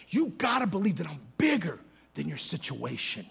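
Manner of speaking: firm, full preaching voice; preaching declaration. Acted. Preacher telling the church God is bigger, proclaiming.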